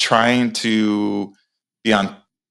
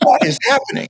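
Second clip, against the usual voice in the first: bewildered; 13 semitones higher than usual. Retold or imitated.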